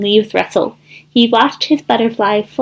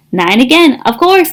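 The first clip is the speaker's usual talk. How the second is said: mock scream; 3 semitones higher than usual. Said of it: "Thistle screamed".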